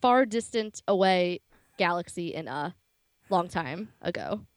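grand booming space narration. Shown as a demonstration. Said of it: "I'm gonna come in and save this".

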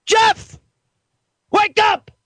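calling out. Acted. Calling out to caller.

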